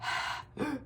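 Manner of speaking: long, heavy airy breaths; imitated creature breathing. Camper hears it at the tent wall, heavy breathing. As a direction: breathe heavily like something outside the tent. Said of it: "he hears".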